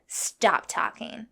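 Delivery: imitated order, stretched out word by word; slow retold command. Line-cutter ordering her to be silent, slowly imitated. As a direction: draw out each word as an order.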